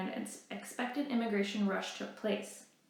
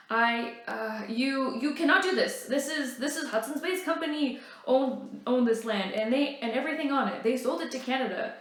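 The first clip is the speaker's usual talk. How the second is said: higher, louder stammering officer; a hint of a rattled major sputtering; flustered protest; 4 semitones higher, 4 dB louder than usual. Major Webb sputtering at Riel, flustered louder protest.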